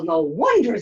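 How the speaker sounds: ordinary delivery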